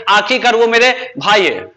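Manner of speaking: very slow, word by word, so the class can write it; slow dictation. Shown as a demonstration. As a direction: spell the sentence out slowly for copying. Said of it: "उसमें लिखा देंगे". (धीरे-धीरे, एक-एक शब्द लिखवाते हुए)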